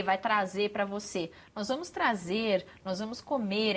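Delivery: trazer and comer with a clear final R, slow; R final bem pronunciado; final R clearly sounded. Shown as a demonstration. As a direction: make the final R heard. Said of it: "É importante aparecer esse R".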